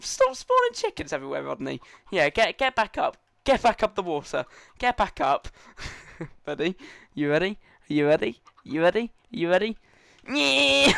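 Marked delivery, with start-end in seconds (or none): 0.0-1.8 laughing scold. Real, not acted. Scolding friend in game. 10.3-10.9 high loud yeah; cheer. Real, not acted. Game starts, cheering.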